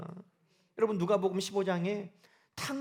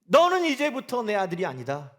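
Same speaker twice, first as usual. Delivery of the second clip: stern father disowning; 5 dB louder than usual. Pretend. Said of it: "아버지가 어떻게 하겠어요".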